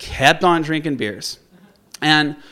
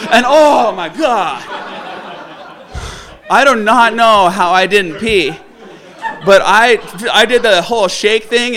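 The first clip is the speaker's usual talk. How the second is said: laughing; 4 semitones higher, 6 dB louder than usual. Real, not acted. Recalling the scare, laughing.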